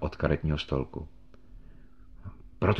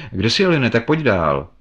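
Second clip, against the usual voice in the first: calling out; 5 semitones higher, 6 dB louder than usual. A narrator's reading. Calling out into the dark.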